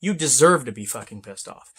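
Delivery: quick, soft placating patter; calm the angry trucker down; mock soothing. Advising drivers how to soothe a pissed-off trucker: soft quick mock calm. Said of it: "just sit there and go".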